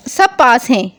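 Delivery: normal talking voice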